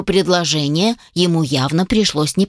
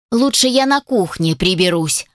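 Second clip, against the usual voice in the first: plain reading voice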